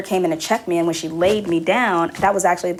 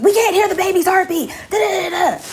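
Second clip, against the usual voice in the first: high, breezy parody of a pushy nurse; mock the brisk nurse way up high; 11 semitones higher than usual. A mother mocks the pushy nurse, high and breezy. Voicing the aggressive head nurse.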